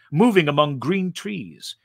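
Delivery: usual speaking voice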